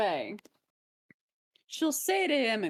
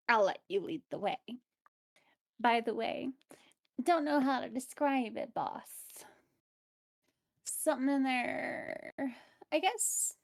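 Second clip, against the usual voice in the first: goblin voice; 3 semitones higher than usual. Acted. Bugspit in goblin voice.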